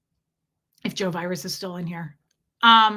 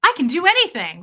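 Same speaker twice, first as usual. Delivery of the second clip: inspired; 7 semitones higher, 7 dB louder than usual. Retold or imitated. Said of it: "It's like".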